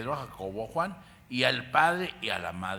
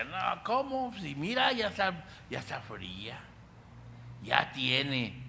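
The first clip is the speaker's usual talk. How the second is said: scornful doubters; 4 semitones higher than usual. Retold or imitated. The crowd mocking Jesus, high and incredulous. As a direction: scoff that she is already cold. Doubters insisting she is dead.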